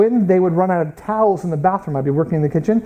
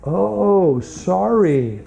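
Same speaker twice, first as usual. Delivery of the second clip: drawn-out sheepish "oh, sorry"; mock apology; much slower than usual. American scolded by a British man over a bin, mock apology. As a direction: stretch out a mock-chastened apology.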